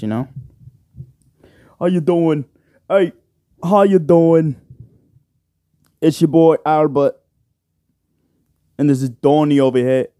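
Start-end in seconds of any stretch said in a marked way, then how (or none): 1.8-10.1 put-on British podcast-host accent. Podcaster imitating a rival show's hosts, British accent. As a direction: lift the voice into a mock British accent. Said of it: "That's my British accent".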